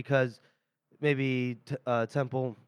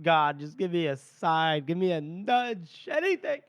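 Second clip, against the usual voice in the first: slow mock plea, climbing higher; plea to God; 4 semitones higher than usual. Temple begs the sky for a sign, mock pleading. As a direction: draw out a desperate retold prayer, rising at the end. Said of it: "he's looking up into the, uh, the sky, and he's like".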